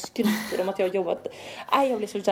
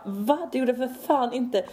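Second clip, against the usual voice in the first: slightly raised, indignant protest; irritated denial; 4 semitones higher, slower than usual. Retold or imitated. Retelling her denial of bragging, irritated. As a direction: push back, annoyed at the accusation. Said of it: "jag blev så jävla irriterad".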